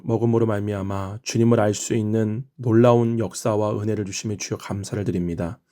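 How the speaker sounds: ordinary talk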